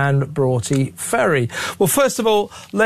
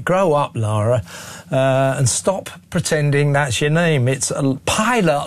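ordinary delivery

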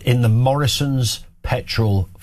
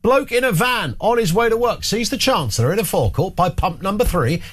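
ordinary talk

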